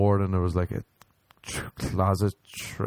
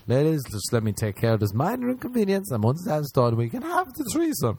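high, charming, suave tone; smooth seductive voice; 7 semitones higher than usual. Retold or imitated. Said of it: "I'm in my head being like".

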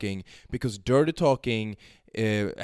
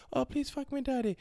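mock begging girl; 14 semitones higher, 5 dB quieter than usual. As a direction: plead like she can't wait.

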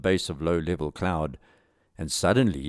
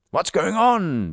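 high, slow, stretched yell; acted high-pitched shout; yelled back; 11 semitones higher, 4 dB louder, much slower than usual. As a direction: yell it back as the alarmed captain. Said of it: "Blakely yelled back".

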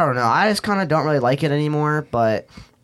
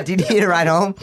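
laughing repeat; 4 semitones higher, 4 dB louder than usual. Retold or imitated.

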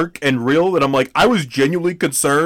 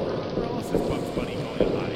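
whispered high voice; 12 semitones higher, 10 dB quieter than usual. Acted. Joke in put-on voice.

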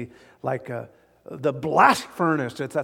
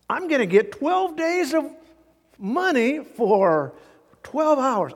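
higher, louder, slow grumbling worker; workers' grumbling voice; 7 semitones higher, 4 dB louder, slower than usual. Acted. Preacher voicing a worker expecting more pay, higher and slow. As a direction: ham up the greedy day laborer.

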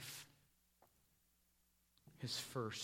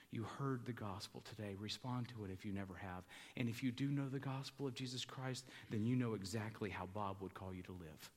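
gentle appeal; 3 semitones lower, 4 dB quieter than usual. Acted. Preacher gently urging mourners to respond, tender appeal. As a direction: invite them gently to faith.

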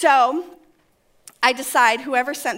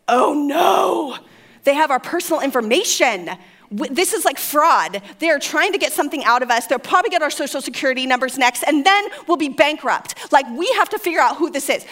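hammed-up alarm, louder and quick; mock panic; 2 semitones higher, 4 dB louder than usual. Wife panicking to husband about fraud, mock panic. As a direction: overreact as if the scam will ruin you. Panicking over a scam in retold scene.

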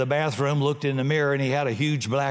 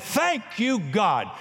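high cry of thanks; demo shout of praise; 4 semitones higher, slower than usual. Shown as a demonstration. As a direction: shout your thanks to God. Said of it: "I've done that in the yard".

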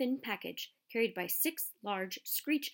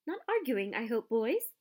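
squeaky; 2 semitones higher than usual. Acted. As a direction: squeak it like a tiny cheerful professor. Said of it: "he squeaked".

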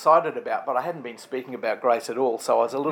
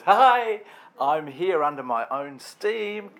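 hammed-up self-satisfied newcomer announcing himself; mock breezy self-congratulation; 3 semitones higher, slower than usual. Someone waltzing into heaven announcing himself, mock breezy boast. Voices smug arrival in heaven.

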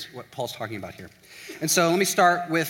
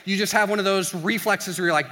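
usual speaking voice

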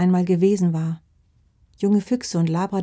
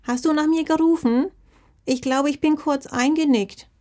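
sleepy good morning; 8 semitones higher, 4 dB louder than usual. Acted. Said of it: "Omamas verschlafene Stimme".

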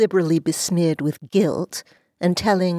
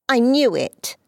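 put-on girlish cry; 7 semitones higher than usual. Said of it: "cried Dulcie".

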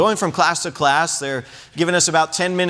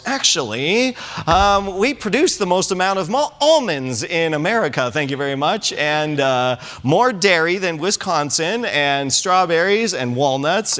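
lightly voiced know-it-all reeling off facts; a hint of a smug fact-checker; statistics voice. Pastor rattling off California farm facts, mildly smug. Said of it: "in my statistics voice".

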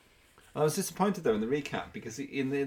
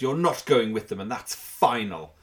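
Barbara; 6 dB louder than usual. Retold or imitated. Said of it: "She just turns to Susan and says".

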